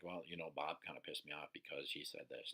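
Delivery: a quiet, offhand shrug of an answer; calm, detached answer. Shown as a demonstration. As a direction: mention it like it barely matters. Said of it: "we don't just answer it like".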